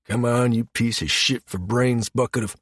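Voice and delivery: frustrated swearing at equipment; cursing technician. A narrator's reading. Technician buried in a column cursing it, exasperated. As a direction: curse the stubborn machine under strain. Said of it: "A stream of curses greeted him".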